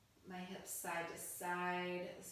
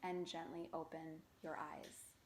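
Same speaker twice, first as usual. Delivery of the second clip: calm body-scan guide, unhurried phrases with long pauses; guided meditation. Acted. Yoga teacher guiding beginners through a stress-relieving body scan, guided meditation voice. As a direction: lead them through it gently, leaving space to breathe.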